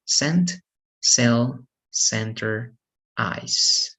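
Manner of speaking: "Scent, cell, center" with a hissed S sound. Shown as a demonstration. Teacher giving examples of the rule, C as S. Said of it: "it is pronounced as S".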